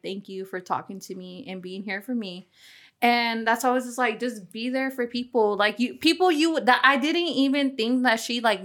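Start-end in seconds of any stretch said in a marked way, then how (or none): 0.0-2.5 soft, low retold gratitude; very soft reported thank-you; quiet thanks. Retells friend's heartfelt thanks.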